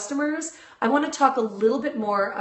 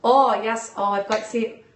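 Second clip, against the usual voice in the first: Irish accent. Shown as a demonstration. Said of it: "an Irish accent".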